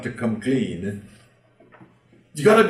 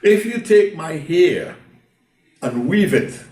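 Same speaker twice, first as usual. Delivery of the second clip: Samson brushing her off, higher and louder; teasing Samson; 7 semitones higher, 5 dB louder than usual. Acted. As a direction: play Samson laughing off his nagging lover. Samson teasing Delilah in story.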